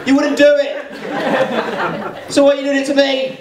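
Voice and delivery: high-pitched, indignant comic outburst; exasperated protest. Acted. Comic objecting to questions about Essex, exasperated high-pitched protest.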